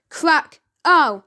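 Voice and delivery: a loud yelp after the crack; screamed ow. A narrator's reading. Crime boss hit by an egg, yelping loudly. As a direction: cry out as the egg hits. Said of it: "screamed the crime boss".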